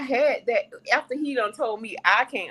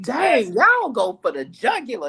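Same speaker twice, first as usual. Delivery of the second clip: taken aback, emphatic disbelief; astonished reaction; 4 semitones higher, 3 dB louder than usual. Retold or imitated. Onlooker reacting to Jamaicans' cussing, astonished. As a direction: marvel at how hard they go.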